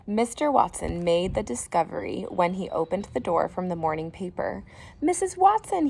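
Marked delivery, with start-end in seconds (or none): 5.0-5.9 high, loud call to the house. Acted. Husband calling his wife to come see, loud. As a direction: shout for her from the door.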